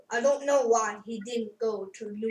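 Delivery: a hint of a Spanish accent. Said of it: "Spanish accent and go".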